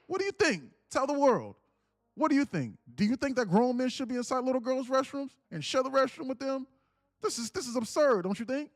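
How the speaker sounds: mock Trump grilling. Host impersonating Trump pressing the worker before the world, hammed-up. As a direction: grill her like a showman playing to the room. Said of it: "He goes".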